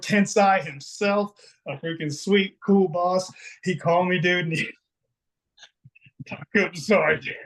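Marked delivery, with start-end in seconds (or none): 3.6-7.3 choked up with emotion. Real, not acted. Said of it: "It's emotional".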